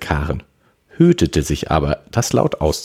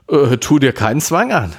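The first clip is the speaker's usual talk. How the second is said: lightly amused, higher and louder; 10 semitones higher, 5 dB louder than usual. A narrator's reading. Brother welcomes a sudden hug, lightly amused. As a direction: say it with a touch of mirth, pitched up. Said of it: "lachte Charlie".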